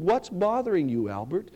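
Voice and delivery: put-on a touch of baby talk, fading; mild coo. Passing mother cooing to the baby, lightly cooed. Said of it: "she cooed".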